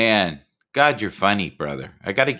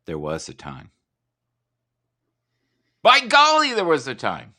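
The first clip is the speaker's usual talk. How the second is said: imitating Bannerman; 2 semitones higher than usual. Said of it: "He says everything three times".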